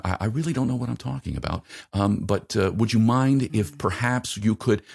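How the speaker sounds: hesitant, deferential high-pitched voice; speaking up high. Shown as a demonstration. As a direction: speak up above your natural tone, unsure and apologetic. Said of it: "speaking, uh, up, up here is".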